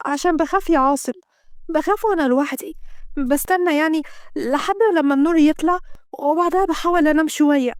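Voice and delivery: lightly voiced scared girlfriend; young woman, lightly voiced. Kenda voiced, frightened confession.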